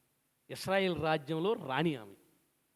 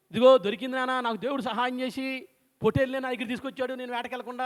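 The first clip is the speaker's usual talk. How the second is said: mimicking Esau; 5 semitones higher, 4 dB louder than usual. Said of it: "ఈయన mimicry చేస్తున్నాడు".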